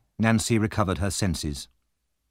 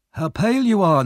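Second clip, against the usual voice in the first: Fagin playing the kindly old man; fond old Fagin; 10 semitones higher, 4 dB louder than usual.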